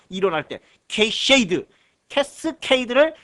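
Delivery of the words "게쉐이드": 게쉐이드 as "ge-shwei-deu", sh for s-k; altered pronunciation. Shown as a demonstration. Teacher reminding students of theory class, altered 게쉐이드 pronunciation. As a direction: say 게쉐이드 with a shushed middle, no k. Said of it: "이렇게 읽었던 거 기억하시나요?".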